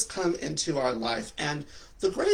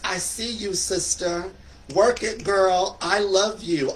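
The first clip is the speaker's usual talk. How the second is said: higher, emphatic mock cheer; hyping up a friend; 4 semitones higher, 4 dB louder than usual. Gay boys telling other gay boys, affectionate cheering. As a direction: hype them up, pitched up a bit.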